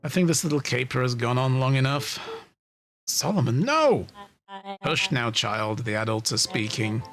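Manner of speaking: smug theatrical villain. Acted. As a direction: lord it over them with calm menace.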